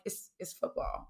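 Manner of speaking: breathy, hushed realization; whispered it's football; hushed aside. Retold or imitated. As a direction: say it under your breath, half to yourself. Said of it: "I'm like".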